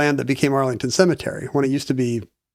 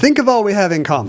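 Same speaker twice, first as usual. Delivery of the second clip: put-on Southern accent; 4 semitones higher than usual. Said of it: "I love how your Southern accent".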